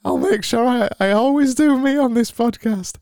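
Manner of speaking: high, brightly put-on cheer; over-the-top happy host; fake happy voice. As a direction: beam through every word. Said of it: "that voice".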